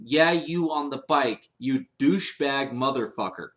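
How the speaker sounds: mock yell from a car window; retold yell. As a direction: shout it at the biker, half-hearted. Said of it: "started screaming".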